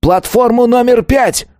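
very high, drawn-out proclamation; triumphant cry. A narrator's reading. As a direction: cry out the verdict slowly. Killer announces chosen victim. (протяжный торжествующий крик)

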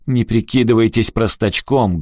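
threatening. Acted. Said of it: "голос Рикки стал угрожающим".

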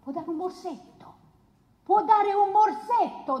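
sarcastic echo of the lawyer's words, rising on the repeat; mocking the lawyer. Woman throwing the lawyer's argument back at the court, mocking. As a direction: repeat his phrase with scorn. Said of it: "come dice l'avvocato".

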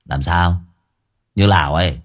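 low, sneering dare; cocky taunt. Acted. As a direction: jut the chin and mock him. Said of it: "Ông sấn sổ bước tới hất hàm". (giọng thách thức khinh khỉnh)

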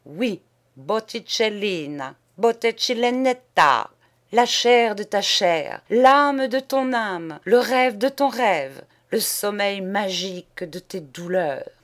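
loud, high rapturous litany; ecstatic. Acted. Poet praising Botticellina rapturously, high and loud. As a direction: pour out adoration.

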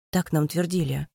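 plain reading voice

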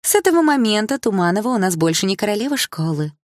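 put-on high, gloating mean-girl voice; smirking proclamation. A narrator's reading. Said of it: "с ухмылкой провозгласила Малиновская". (издевательское торжество)

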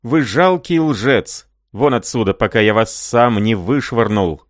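high, loud furious yelling; roaring. Acted. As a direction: roar at him to get out. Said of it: "заревел Рай".

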